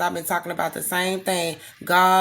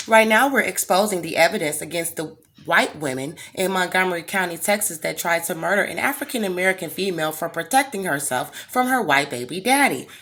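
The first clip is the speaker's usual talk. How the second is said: louder, clipped newsreader-style proper voice; mock proper American voice; 3 dB louder than usual. Shown as a demonstration. To the critic of her accent, a mock proper American voice. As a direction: put on a formal white-sounding voice. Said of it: "speak with my American voice".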